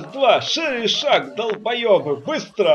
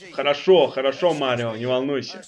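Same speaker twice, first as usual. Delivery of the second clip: low character voice; 8 semitones lower, 4 dB quieter than usual. Acted. Luigi answers Mario, low voice.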